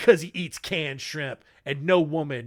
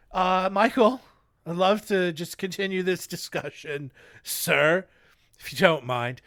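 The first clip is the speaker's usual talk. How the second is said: polite. Retold or imitated. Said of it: "rather than knock politely".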